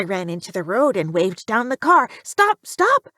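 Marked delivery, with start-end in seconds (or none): 2.2-3.1 high, loud cry to halt; urgent call. A narrator's reading. Officer waves down a car, urgent high shout. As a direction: call out sharply to stop a driver.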